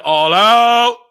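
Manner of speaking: long, drawn-out hammed-up push; straining push. Showing friends how he pees with conviction, straining. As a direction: stretch it out very slowly, as if pushing hard.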